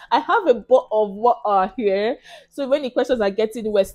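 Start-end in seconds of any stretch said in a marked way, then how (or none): 0.1-2.2 "bottle of water" put on, through a laugh; put-on pronunciation. Shown as a demonstration. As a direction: laugh while swallowing the t's in "bottle" and "water". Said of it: "I almost threw up saying that".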